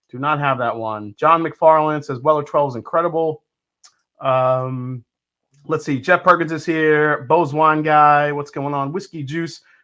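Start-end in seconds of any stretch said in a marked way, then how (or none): none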